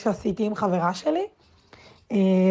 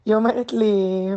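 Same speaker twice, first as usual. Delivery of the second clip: ordinary delivery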